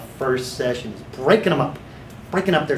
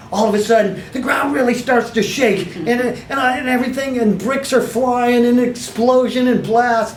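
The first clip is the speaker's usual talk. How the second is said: dramatic earthquake; 7 semitones higher than usual. Shown as a demonstration. Therapist acting out the wall exploding for trainees, hammed-up. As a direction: paint the explosion big and vivid. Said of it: "I'm exaggerating a little bit".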